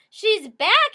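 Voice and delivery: high, loud frightened little-bear wail; baby bear seeing Goldie again; wailing cub. A narrator's reading. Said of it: "he wailed".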